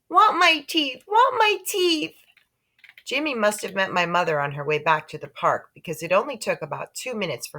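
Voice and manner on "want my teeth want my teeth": put-on high, loud toddler wail; screaming toddler. A narrator's reading. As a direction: howl it like a tantrum child. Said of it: "Fudge started to scream".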